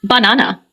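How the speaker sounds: "banana" with the middle syllable stressed; stress on second syllable. Shown as a demonstration. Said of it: "the stress is on the second syllable".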